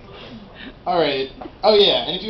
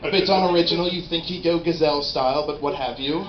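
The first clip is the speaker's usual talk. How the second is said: mock nature documentary narrator. Narrating gazelle sex like a nature documentary, hushed. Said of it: "if it was like".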